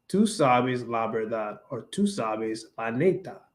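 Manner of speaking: slow "tú sabes la verdad" with every s sounded; careful neutral "tú sabes", s sounded; neutral Spanish. Shown as a demonstration. Showing the neutral way: slow, careful "tú sabes". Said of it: "Instead of saying".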